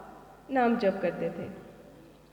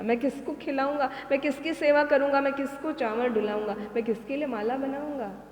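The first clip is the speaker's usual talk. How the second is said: anguished plea; 3 semitones higher than usual. Retold or imitated. Disciple begging Mahaprabhu not to take sannyasa, anguished plea. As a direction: beg him not to leave you. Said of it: "तो वो कहने लगे".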